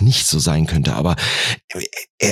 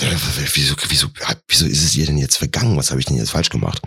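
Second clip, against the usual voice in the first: stuttering start, then a low hurried rush; acted baffled stammering; dumbfounded; 4 semitones lower, faster than usual. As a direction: stumble on the first word, then blurt questions. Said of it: "wenn man dann so verdutzt ist".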